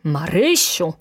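mild acted shout; reproving cry of a name; sharp call. A narrator's reading. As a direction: call the maid to order. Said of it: "krzyknęła baronowa".

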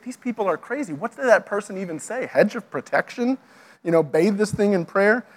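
baffled outsider. Acted. Non-Christian hearing church jargon, lightly baffled. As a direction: question it as a bewildered newcomer. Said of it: "if you're not a Christian".

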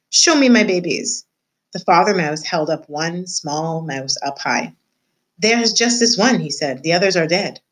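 measured read-aloud voice for a class; story narration. A narrator's reading. Teacher reading a chapter aloud to her class, storybook narration.

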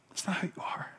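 near-silent whispered repeat. Real, not acted. Preacher reassuring the congregation, whispered. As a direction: drop to a whisper to let it sink in.

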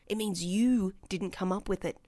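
usual speaking voice

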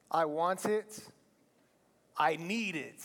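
lightly voiced whiny child; a hint of a pleading kid. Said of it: "I should do a kid voice".

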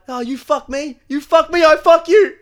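very high, loud hammed-up bickering that builds; mock yelling. Drunk friends teasing the baker, hammed-up yelling. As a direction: yell it like a silly drunk tourist. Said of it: "we're like".

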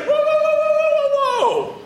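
high, loud sung-out whoa; startled whoa. Retold or imitated. Woman hearing prophecy of a son, high loud wary whoa. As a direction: pull back, wary and stunned. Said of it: "she's like".

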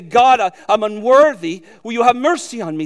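crying out to God. Retold or imitated. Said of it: "you cry out and you say".

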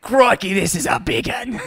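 hammed-up Aussie twang; bad Australian accent. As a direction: do a poor man's Australian accent. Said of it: "You are the worst accent guy".

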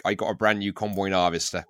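broad rural West Country English; strong West Country accent. Shown as a demonstration. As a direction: lay on a thick West Country burr. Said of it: "it gets even stronger".

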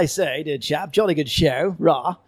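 exaggerated posh British accent, drawn out; hammed-up upper-class English toff; posh Queen's English. Sending up regional British accents for a Russian guest, in mock posh English. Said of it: "That was dreadful".

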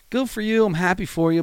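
sarcastic, pitch jumping high; dry mock congratulations. Real, not acted. Mocking rich comedians' bragging.

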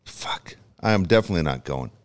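hushed whisper. Real, not acted. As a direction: whisper it under your breath. Whispered refusal.

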